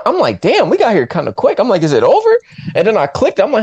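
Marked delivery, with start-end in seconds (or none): 0.4-1.6 higher, animated retold reaction; mock amazement; surprised. Retells surprise at film's length. 1.8-2.4 higher, hopeful retold question; animated, pitched-up disbelief; incredulous question. Retells surprise at film's length.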